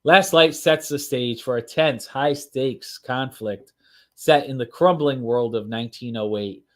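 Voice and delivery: dramatic read-aloud narration; storytelling voice. Acted. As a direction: read it like a book trailer. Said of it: "storytelling voice going".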